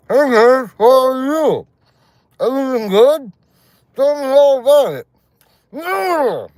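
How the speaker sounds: very high, loud squealed English in a nasal mock Korean voice; mock Korean-accented English. Trying the Korean voice on English, high squealing mock Korean accent. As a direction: squeal a cheery greeting way up in pitch, ending in a wailing no. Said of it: "I tried speaking English".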